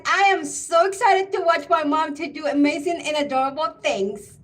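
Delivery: lightly voiced excited daughter, quick and eager; a hint of the daughter gushing over her mom; mild mock of a daughter's excited praise; imitating daughter. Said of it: "that's the sound it will come out of her mouth".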